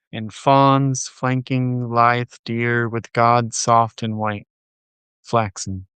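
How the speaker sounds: measured, deliberate poem recital; poetry reading. Acted. Reading a translated poem titled Process aloud, measured poetry reading. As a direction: read it as a poem, phrase by phrase with pauses.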